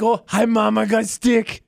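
lightly voiced happy dog with a stick; imitating a happy dog. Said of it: "Or just like".

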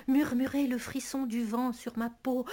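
soft, hushed line; murmured. Acted.

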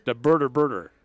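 "burger burger" mumbled for bread and butter; garbled catchphrase. Retold or imitated. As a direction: slur "the burger burger" like Ajay did. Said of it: "Ajay had a hard time saying bread and butter".

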